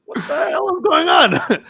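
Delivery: high, slow, wailed disbelief; mock exasperation. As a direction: drag it out in a high comic cry. Retells his exasperated reaction, laughing.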